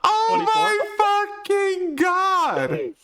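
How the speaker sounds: high, slow, laughing outburst; laughing exclamation. Real, not acted. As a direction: crack up mid-shout. GM cracks up at joke.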